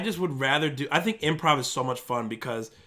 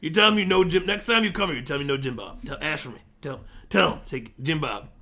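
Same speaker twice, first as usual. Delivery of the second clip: lightly put-on hardware-store accent; accented hardware worker. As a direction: play an eager store hand offering everything. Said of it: "That's a really good accent".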